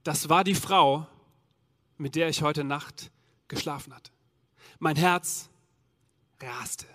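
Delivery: fading to a breathless hush; hushed shock. Acted. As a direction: let the shock steal your voice. Shock, recognizing the woman.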